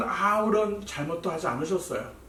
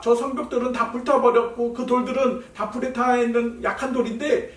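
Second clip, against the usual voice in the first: higher, sneering voice that laughs at the builders; mocking taunt; 4 semitones higher than usual. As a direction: scoff at them like an enemy. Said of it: "조롱하고 비웃는 거예요".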